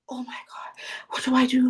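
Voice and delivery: hushed, panicky whisper; panicked whisper. Retold or imitated. Client frightened by her first discovery call, panicked whisper. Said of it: "she was like".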